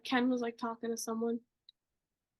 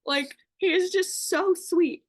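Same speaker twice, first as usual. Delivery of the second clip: gushing; 4 semitones higher, 4 dB louder than usual. Real, not acted. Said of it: "I just cannot".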